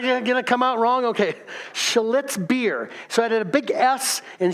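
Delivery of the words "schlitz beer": careful, deliberate enunciation; slow, careful pronunciation. Real, not acted. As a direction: pronounce SCHLITZ carefully so it can't be misheard. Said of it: "have to say it slowly as to pronounce it".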